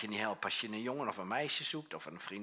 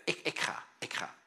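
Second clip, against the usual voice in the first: whispered resolve; 4 semitones higher than usual. Acted. Jesus answering his Father.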